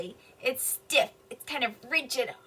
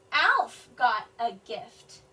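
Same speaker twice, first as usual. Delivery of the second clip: slow, louder, falling statement; 3 semitones lower, 5 dB louder, much slower than usual. Shown as a demonstration. Teacher modeling a telling sentence, slow fall. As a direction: state it slowly, voice dropping at the end. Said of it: "Alf is not asking a question".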